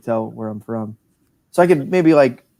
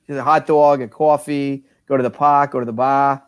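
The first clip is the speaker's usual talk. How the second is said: put-on Boston accent. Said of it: "better than your Southern accent".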